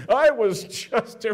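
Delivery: loud, high, slow burst; worked up telling the story; carried away excitement; getting edgy. Real, not acted. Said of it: "Dan, you're getting kinda edgy".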